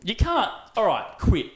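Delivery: high, loud amazed outburst; excited disbelief. Real, not acted. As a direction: burst out in awe. Raving about the fan's birthday.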